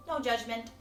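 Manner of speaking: measured meditation voice with breathing pauses; guided meditation. Real, not acted. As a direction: coax the body along with the breath.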